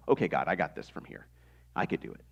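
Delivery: lightly voiced little child insisting; toddler voice. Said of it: "Said in our best toddler voice".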